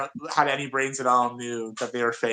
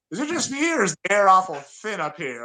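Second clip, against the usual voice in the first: feigned puzzlement, pitched up at the start; mock innocent needling; 3 semitones higher than usual. Dave needling a balding kid in high school, mock innocent. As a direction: wonder aloud with fake innocence to needle someone. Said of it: "just to be an asshole".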